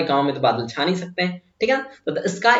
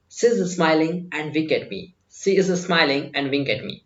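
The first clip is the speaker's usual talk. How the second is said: slow model sentence; 2 semitones lower, 4 dB quieter, much slower than usual. Shown as a demonstration. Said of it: "तो मैं कहूंगा".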